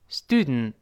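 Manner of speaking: "Student" with N released through the nose; "Student" ending in nasal N, T unreleased; nasal-plosion "Student". Shown as a demonstration. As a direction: stick the tongue, skip the last vowel of "Student". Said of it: "舌尖粘住，鼻子出气儿".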